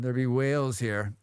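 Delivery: low attempt at a Scottish accent. Streamer quoting the whales line, in a Scottish accent. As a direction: put on your best Scots, pitched low.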